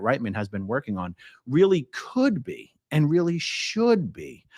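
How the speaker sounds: really could be and really should be, both leaning on really; stress on really. Retold or imitated. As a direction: read it with the transcript's emphasis on really. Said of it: "took out the time to put the emphasis on those two words".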